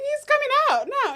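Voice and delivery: high, loud urgent wail; mock tearful panic. Imitating herself telling mum, panicked high cry. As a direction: announce it in hammed-up panic.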